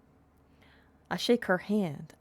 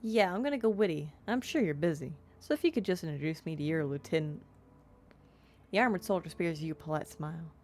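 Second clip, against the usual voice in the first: put-on southern-accented game narration. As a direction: read the story with a touch of southern twang. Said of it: "I felt like it needed a southern accent".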